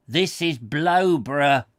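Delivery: Blowborough hit hard and loud on the first syllable; a gruff stranger snaps the name back, stressing BLOW; savage retort. A narrator's reading. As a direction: bark it back, BLOW-borough. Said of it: "he responded savagely, laying great stress on the first syllable".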